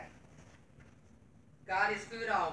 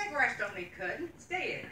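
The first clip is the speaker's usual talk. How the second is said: scolding; 3 semitones higher than usual. Retold or imitated. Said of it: "And I told him".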